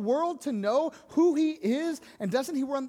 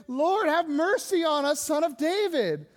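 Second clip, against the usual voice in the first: higher, acted cry for mercy; pleading call; 3 semitones higher than usual. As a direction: call out as a blind beggar would, mildly raised. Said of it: "they're calling out to Him".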